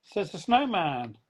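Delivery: choppy robotic call audio; breaking up like a bad video call; robotic glitchy audio. Real, not acted. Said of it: "You sound a bit like a robot".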